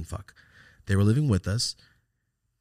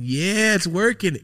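gleeful cheer; 11 semitones higher, 8 dB louder, slower than usual. Retold or imitated. Celebrating rain dance.

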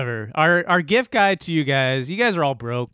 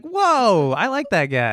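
excited; 5 semitones higher, slower than usual. Retold or imitated. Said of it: "and they're like".

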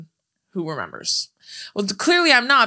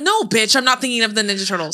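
annoyed retort. Retold or imitated. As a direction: snap it back like you're fed up with the question. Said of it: "I'm like".

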